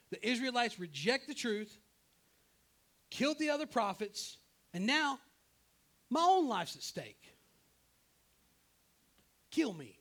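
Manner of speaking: loud, high, hammed-up desperation; overwrought complaint. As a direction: build to a melodramatic cry for your life. Acted Elijah's desperate complaint to God.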